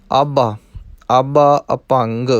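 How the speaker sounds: ਆਭਾ said with a clear aspirated bh; correct ਆਭਾ. Shown as a demonstration. Teacher shows the right ਆਭਾ with aspirated bh. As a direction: stress the bh in ਆਭਾ, not ਆਪਾ. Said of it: "ਆਪਾ ਨਹੀਂ ਕਰਨਾ".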